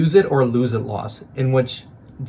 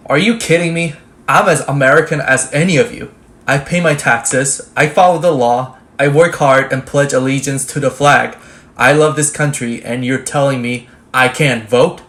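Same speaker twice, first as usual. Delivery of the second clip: louder, rising indignation at being turned away; indignant protest; 2 semitones higher, 7 dB louder than usual. Acted. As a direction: shout back that you belong here. Citizen denied vote protests.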